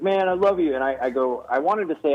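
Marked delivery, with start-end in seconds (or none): 0.0-0.7 lightly imitated host, pitched up; a hint of gushing, breathy-host impression; Jimmy Fallon. Host praising the comedian after his joke, light impression. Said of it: "he's like".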